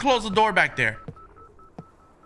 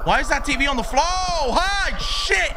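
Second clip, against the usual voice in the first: high, loud alarmed voice; startled alarm; 11 semitones higher, 5 dB louder than usual. Real, not acted. Player startled by the TV on the floor, alarmed. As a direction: react in alarm to the TV.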